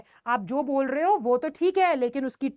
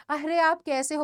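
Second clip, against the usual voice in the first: friendly "अरे आप कैसे हो?" with a light, caring lift on "आप"; courteous "अरे आप कैसे हो?"; polite greeting. Shown as a demonstration. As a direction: ask kindly, warmly interested. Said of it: "message है तुम्हारा कि".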